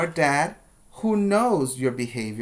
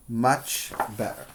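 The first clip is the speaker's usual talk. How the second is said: soft echo; 3 semitones lower, 4 dB quieter than usual. Shown as a demonstration.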